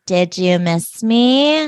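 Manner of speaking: slow, eerie stalker whisper-tease; creepy. Retold or imitated. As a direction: draw it out like a creep. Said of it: "Georgina creepily comes up".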